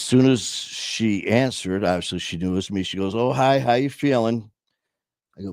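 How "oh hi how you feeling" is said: lightly voiced mom, pitched up; casual, higher phone hello from an unknowing mom; a hint of a chirpy, oblivious mother; unsuspecting mom. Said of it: "She has no idea what's going on".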